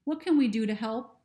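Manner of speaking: slow, gentle reassurance; soothing, slow. Acted. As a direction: ease her down, unhurried and kind. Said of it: "in a soothing voice".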